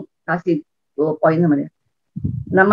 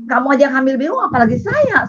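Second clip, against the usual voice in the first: mock anger; 7 semitones higher than usual. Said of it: "Terus saya marah".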